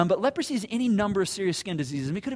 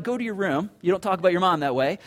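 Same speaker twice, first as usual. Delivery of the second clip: parent scolding; 6 dB louder than usual. Retold or imitated. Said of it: "first I'd be like".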